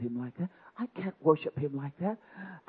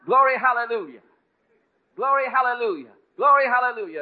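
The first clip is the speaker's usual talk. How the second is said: high, loud chant of praise; glory hallelujah, sung out high; joyful praise; 10 semitones higher, 9 dB louder than usual. Retold or imitated. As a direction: ride the wave of joy. She was just going with it.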